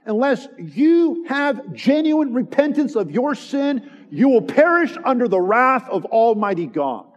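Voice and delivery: forceful pulpit exhortation; impassioned preaching. Real, not acted. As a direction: press each warning home to the congregation. Preaches a warning at listeners.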